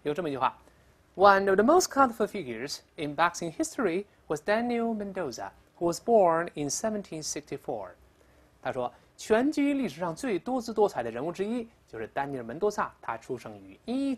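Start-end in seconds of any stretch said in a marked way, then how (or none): 1.1-7.9 higher, projected English textbook reading; reading aloud. Shown as a demonstration. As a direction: read out an example sentence, clearly and louder.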